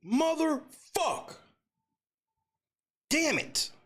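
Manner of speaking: very high, slow wailed curses; anguished groan. Real, not acted. Fan wailing as his team loses, very high and slow. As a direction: let the loss tear it out of you. Fan reacting to buzzer loss.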